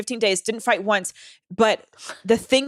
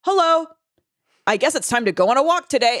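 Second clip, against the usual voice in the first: pet voice; 3 semitones higher, 3 dB louder than usual. Retold or imitated. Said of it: "he'd be like".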